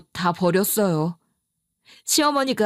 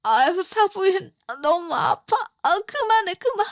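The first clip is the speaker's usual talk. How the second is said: much higher pleading voice of a sick mother; pained cry; 9 semitones higher than usual. Retold or imitated. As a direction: beg her to stop through the pain. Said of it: "이런 소리를 했겠어요". (훨씬 높게 아파서 애원하는 친정엄마 목소리)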